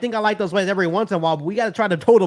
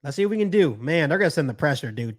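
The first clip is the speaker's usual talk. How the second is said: usual speaking voice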